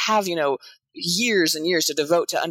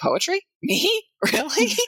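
acted, incredulous laughing with voice way up high; 10 semitones higher than usual. Asked what their past self would say, acting out laughing disbelief. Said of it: "my past self would be laughing, going".

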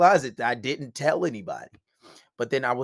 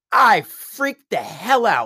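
usual speaking voice

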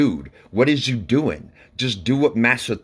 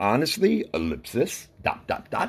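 hushed, whispered, fading, trailing off with a pause; 2 semitones higher, 5 dB quieter than usual. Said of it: "so the ellipsis came".

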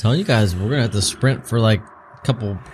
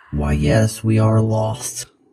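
put-on robotic voice. Role-playing with friends, a player answers as their character in a robot voice. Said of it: "I did my robot voice".

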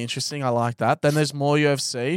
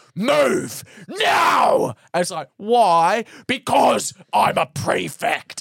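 put-on angry shout, British accent, pitched higher; 6 semitones higher, 4 dB louder than usual. Retelling a video where a prefect orders someone to move: imitating an angry British prefect. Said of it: "And he's getting really angry".

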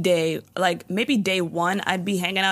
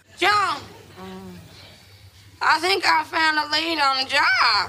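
put-on thick Southern accent; 8 semitones higher than usual. Retelling how Lynn suddenly spoke when sharing a job lead: Lynn's thick Southern accent. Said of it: "Lynn has this thick Southern accent".

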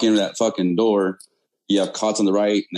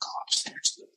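imitated whispering voice. Retelling a voice heard in the ear saying go upstairs: retelling a whispered warning. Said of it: "but in the whisper".

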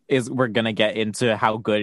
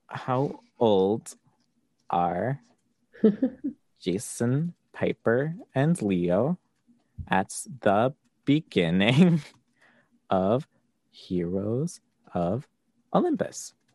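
slow, halting, stalling read with broken-up phrases. Reading a question aloud while stalling to look it up, reading slowly. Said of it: "I basically read that slowly".

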